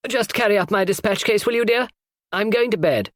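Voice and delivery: lightly voiced older lady. A narrator's reading. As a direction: call up to the girl, a touch imperious.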